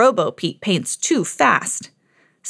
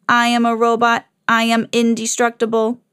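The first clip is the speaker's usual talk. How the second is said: robot voice; 2 semitones higher than usual. Acted. Robo Pete's voice.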